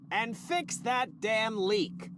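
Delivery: slow, heavy angry order; temper flaring. Acted. Boss loses his temper ordering the leak fixed, slow and forceful. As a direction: bite out each word of the command in a temper. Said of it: "Temper again".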